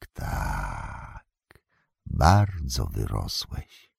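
grudging praise turning to prophecy; bitter wizard farewell. Acted. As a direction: Saruman to Frodo, bitter and ominous.

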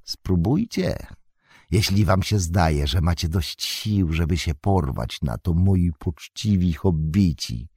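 wizard taunting the hobbits with scorn; sneering. Acted. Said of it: "uśmiechnął się szyderczo".

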